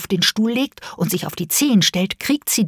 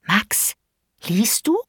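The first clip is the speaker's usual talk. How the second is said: careful; 3 semitones higher, slower than usual. Acted. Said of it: "fragt sie ganz vorsichtig".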